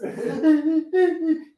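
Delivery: high, laughing mock sobs; hammed-up high boo-hoo; mock crying. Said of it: "You just cry".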